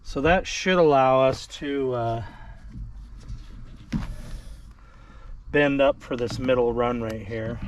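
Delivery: straining while talking; grunting with effort mid-task. Real, not acted. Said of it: "Sorry for the grunting".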